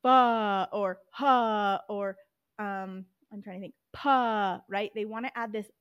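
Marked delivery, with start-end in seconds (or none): 0.0-0.7 loud Fa with an extra uh vowel after f; wrong added vowel. Shown as a demonstration. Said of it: "they're gonna wanna say". 1.1-1.8 loud ha with an extra vowel; wrong added vowel. Shown as a demonstration. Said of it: "they're gonna wanna say". 3.9-4.6 loud pa with an extra uh vowel after p; wrong added vowel. Shown as a demonstration. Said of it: "they're gonna wanna say".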